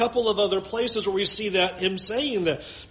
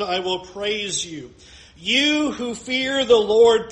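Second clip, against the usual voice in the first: proclaimed scripture reading. Acted. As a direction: announce it to the congregation. Reads Psalm 22 praise verses.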